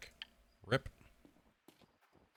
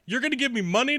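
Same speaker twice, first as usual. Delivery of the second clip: mock chatter; 9 semitones higher, faster than usual. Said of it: "we went from".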